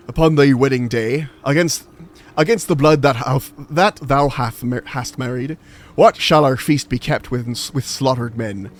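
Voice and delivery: theatrical pirate-accent Shakespeare recital. Shown as a demonstration. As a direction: declaim the verse like an old West Country pirate. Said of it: "put Shakespeare in a pirate accent".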